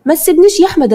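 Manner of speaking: the plea breaks into a crying wail. A narrator's reading. Drugged bride crying out for Ahmed not to leave her. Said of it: "لما لقيت سما بتبكي".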